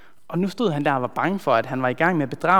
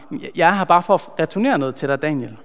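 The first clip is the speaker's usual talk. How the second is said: stammering; 4 dB louder, faster than usual. Acted. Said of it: "får fremstammet".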